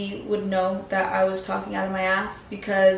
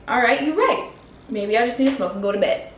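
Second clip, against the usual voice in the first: fake-sweet giving in, dripping sarcasm; sarcastic agreement; 2 semitones higher, faster than usual. Sarcastic mock agreement with boyfriend.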